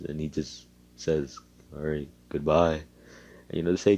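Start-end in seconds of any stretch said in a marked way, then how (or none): 1.7-2.8 subdued, bleak farewell. Retold or imitated. Bleak young man leaving the house, bleak. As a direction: say goodbye with no life in it. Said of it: "he's so bleak, you could say, with his words".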